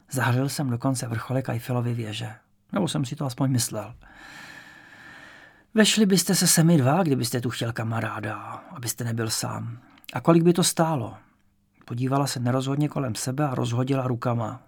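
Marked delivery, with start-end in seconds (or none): 5.7-11.2 a hint of a curious old landlady; elderly landlady. Old landlady asking the young man about friends and rent.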